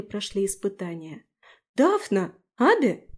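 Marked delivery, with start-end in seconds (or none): 1.7-3.1 higher, louder cry of names; exclaiming. A narrator's reading. Tris sees Daphne and Abi, surprised exclaim. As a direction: call out at the sight of friends. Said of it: "воскликнула Трис".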